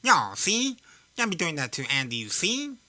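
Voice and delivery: lightly done 1920s tough guy; a hint of an old-time mobster; mild 1920s gangster impression; old-timey gangster voice. Shown as a demonstration. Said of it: "talk like that in that old-timey voice".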